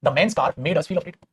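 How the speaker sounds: very slow read-out of the example; slow dictation voice. Shown as a demonstration. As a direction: dictate word by word. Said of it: "अगर उस आदमी की car".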